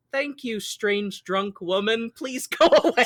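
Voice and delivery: slow, polite thanks that cracks into a laugh; sweetly begging the drunk woman to leave; strained politeness. Retold or imitated. Kay politely thanks the drunk woman, slow and then laughing. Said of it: "Kay is just trying to be so polite".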